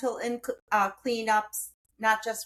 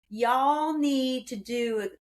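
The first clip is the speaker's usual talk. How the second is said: put-on Texan accent. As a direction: imitate a friend's easygoing Texan accent. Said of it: "in her beautiful Texan accent".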